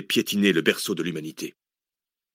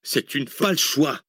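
higher, insistent interruption; cutting in; 6 semitones higher than usual. A narrator's reading. Zach overrules the hesitant professor, cutting in. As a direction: cut across him, pitch raised. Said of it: "coupa Zach".

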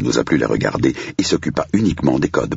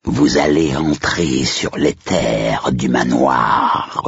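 sepulchral voice; much slower than usual. Acted. Butler resumes spooky welcome.

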